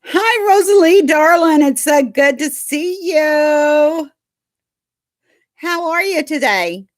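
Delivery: very high, sing-song cooing at the dog. Real, not acted. Greeting the dog Rosalie.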